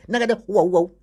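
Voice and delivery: high, loud wowed exclamations; amazed waouh. Retold or imitated. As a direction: gush over each luxury like a dazzled guest.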